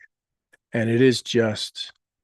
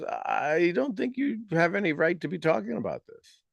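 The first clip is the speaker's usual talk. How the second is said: a hint of a doubting little boy, higher; lightly voiced inner child, higher; little boy inside; 5 semitones higher, 4 dB quieter than usual. The little boy inside doubting the speaker, lightly voiced. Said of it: "the little boy in me goes".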